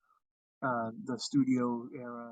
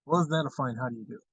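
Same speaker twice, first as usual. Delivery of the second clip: Mid-Atlantic accent. Shown as a demonstration. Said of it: "I bust into one every once in a while".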